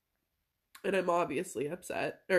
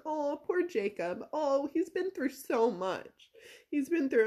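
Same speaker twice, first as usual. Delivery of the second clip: drawn-out mock sympathy, pitched up; slow, higher cooing imitation of a pitying mother; imitated pity; 5 semitones higher than usual. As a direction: fuss over someone, in mimicry. Mimics mom pitying the cousin.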